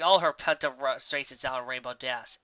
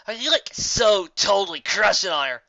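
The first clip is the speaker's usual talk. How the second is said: teasing; 5 semitones higher, 8 dB louder than usual. Acted. Gilda teasing Dash.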